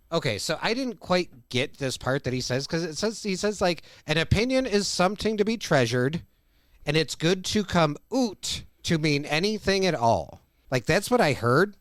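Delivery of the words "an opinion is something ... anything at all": imitated Irish accent leaning on "oot"; higher-starting, lightly hammed Irish quote; mock Irish accent. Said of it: "trying to emphasize the word oot".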